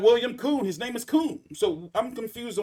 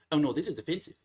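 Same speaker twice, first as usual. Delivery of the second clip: lower, prissy mock outrage; mock offended voice; 5 semitones lower, faster than usual. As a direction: parody a touchy complainer. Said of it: "picked up this cheese and said".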